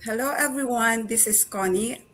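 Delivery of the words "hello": ordinary talk, nothing marked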